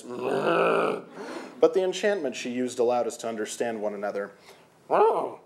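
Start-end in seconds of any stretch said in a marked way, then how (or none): 0.0-1.0 cow moo. Acted. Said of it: "It came out as". 4.9-5.4 startled oh. Acted. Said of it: "she replied".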